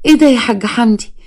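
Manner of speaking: mildly taken aback; surprised. Acted. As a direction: caught off guard by the proposal. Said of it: "أنت فاجئتني بصراحة".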